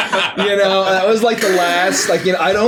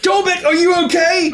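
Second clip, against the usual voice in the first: concerned call; 11 semitones higher than usual. Acted. Calling to a downed companion.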